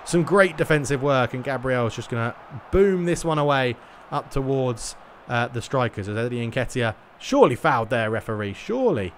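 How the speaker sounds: lively football play-by-play call; match commentary. Acted. Streamer commentating his own eFootball match, lively play-by-play. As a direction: commentate the game live as it unfolds.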